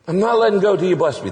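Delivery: high, shouted, urgent plea; preacher modeling passionate prayer, shouted high. Pretend. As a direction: pray like you won't let go. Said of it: "what God loves is passionate prayer".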